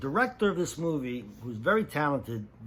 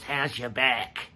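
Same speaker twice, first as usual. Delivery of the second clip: evil grin; slower than usual. Retold or imitated. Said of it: "with an evil grin".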